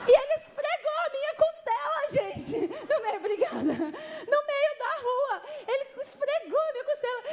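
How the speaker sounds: high-pitched, scandalized retelling; incredulous outburst. Real, not acted. Speaker tells congregation about the rib rub, incredulous.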